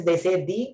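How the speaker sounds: THE pronounced "thee"; THE rhyming with "see". Shown as a demonstration. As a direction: say THE with a long ee. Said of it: "Before vowel sounds".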